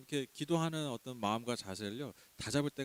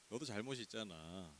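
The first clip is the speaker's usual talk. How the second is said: dismissive blame; 6 semitones lower, 14 dB quieter than usual. Retold or imitated. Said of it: "그게 아니라".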